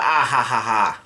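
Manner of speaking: spoken mock laugh at normal volume; yelled laugh, retold. Somebody yells out laughing, half-hearted mock laugh. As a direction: read out each laugh syllable evenly. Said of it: "somebody yells out".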